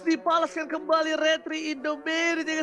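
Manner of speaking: loud, high celebratory shout; excited yes. Real, not acted. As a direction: cheer the comeback smite. Caster celebrates retribution.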